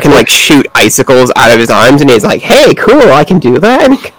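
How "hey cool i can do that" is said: excited. Retold or imitated. Jack copying the icicles.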